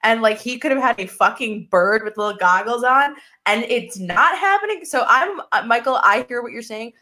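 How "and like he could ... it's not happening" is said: higher, retold indignant rant; mock-furious higher rant; mock fury. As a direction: replay your outrage, half joking. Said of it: "I was furious".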